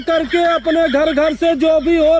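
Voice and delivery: town crier. Acted. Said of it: "आगे जाके चिल्ला यार".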